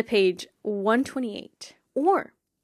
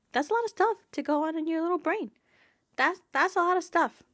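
sympathetic; 7 semitones higher than usual. Real, not acted. Sympathising with Percy's burden.

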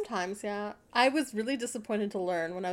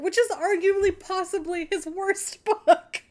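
higher, laughing mid-line; 8 semitones higher, 6 dB louder than usual. Real, not acted. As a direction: giggle through it. Laughing at Dickens' worst book.

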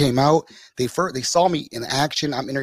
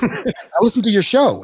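giggling fan; 10 semitones higher, 3 dB louder than usual. Retold or imitated.

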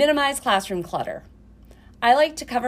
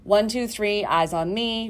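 kindergarten teacher voice; slower than usual. Shown as a demonstration. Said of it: "ways to prepare students to listen".

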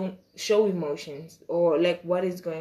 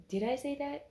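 said aloud, stunned; 6 semitones higher, 11 dB quieter than usual. Retold or imitated. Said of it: "In my head, I was like".

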